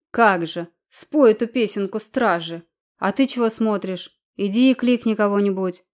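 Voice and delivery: calling out. Acted. Wife calls for the guards.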